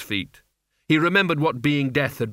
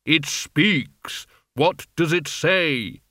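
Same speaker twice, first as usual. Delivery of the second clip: Death's voice; 3 semitones higher, much slower than usual. Acted. Death speaks with cold contempt.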